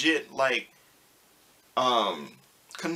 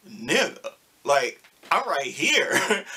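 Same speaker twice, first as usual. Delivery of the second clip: laughing retort; slower than usual. Retold or imitated. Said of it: "And I'm just like".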